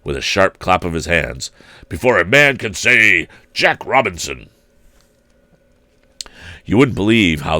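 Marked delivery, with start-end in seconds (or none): 1.9-4.5 put-on jovial old man. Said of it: "cried old Fezziwig".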